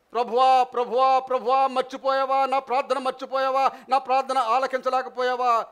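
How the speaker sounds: a loud, aching cry to the Lord; pleading prayer. Retold or imitated. Believer crying out to the Lord over an unanswered prayer, pleading loudly. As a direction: beg God as if He has forgotten you.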